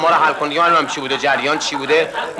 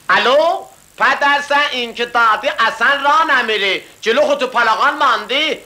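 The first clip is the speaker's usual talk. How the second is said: higher mock angry rant; mock angry phone complaint; 6 semitones higher than usual. Orooj complains to the car company, higher mock rant.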